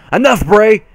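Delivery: sharp cutoff. A narrator's reading. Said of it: "cut her disrespectful cousin off".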